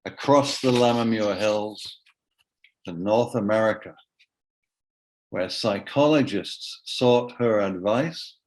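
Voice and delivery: measured verse, paused between phrases; poem reading. Acted. Poet recites the poem about Rosanna, measured and spaced. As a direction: read it out as spaced lines of a poem. First reading of the poem's lines.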